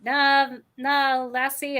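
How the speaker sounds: slow Scottish nah, lassie; lightly Scottish brogue; Scottish-Irish burr. Shown as a demonstration. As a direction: drawl it out like a Scottish old-timer. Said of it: "the Scottish Irish accent that I can do".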